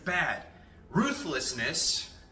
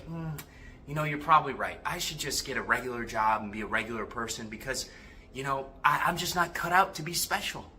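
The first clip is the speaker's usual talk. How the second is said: softer, lightly voiced defeated nice guy; resigned nice guy; 3 semitones lower, 5 dB quieter than usual. Nice guy answering the shadow voice, mildly resigned. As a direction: give in meekly, a touch resigned. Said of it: "And the nice guy's like".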